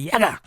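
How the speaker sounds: high imitated hair-yank noise; sudden high "yaga" effort noise; mimed yank. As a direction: act out a sharp tug with your voice. Imitates yanking hair from behind.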